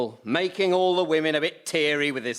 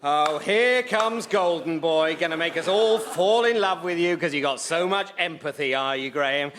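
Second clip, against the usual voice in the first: jealous sneer. Acted. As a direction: drag it out mockingly. Jealous dad taunting Graham.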